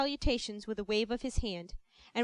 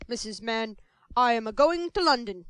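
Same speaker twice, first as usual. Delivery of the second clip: grand announcement; 6 dB louder than usual. Acted. Bumble's announcement.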